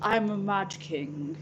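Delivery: slow, lightly hammed-up mad king; a hint of a crazed monarch, drawn out. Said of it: "makes me sound like a freaking mad king".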